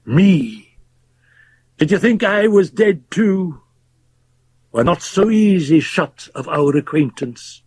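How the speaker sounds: put-on high, taunting, bitter old man; mock him from the bottom of the stairs; scornful Fettes. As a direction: fling it at him with grim mockery. Fettes confronts the doctor.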